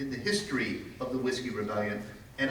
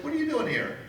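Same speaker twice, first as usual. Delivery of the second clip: imitating Miller; 13 semitones higher, faster than usual. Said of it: "and he says, like".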